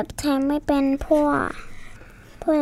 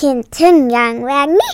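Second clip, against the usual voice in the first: laughing repeat; 7 dB louder, much faster than usual. Real, not acted.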